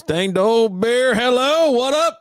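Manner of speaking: high, loud shout-out to viewers; excited greeting. Real, not acted. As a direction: hype up the new arrivals. Greeting viewers joining stream.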